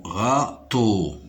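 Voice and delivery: RÂ-TEAU in two beats; Râteau spoken syllable by syllable; split into syllables. Shown as a demonstration. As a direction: sound out both syllables of Râteau. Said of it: "Râteau se compose de deux syllabes".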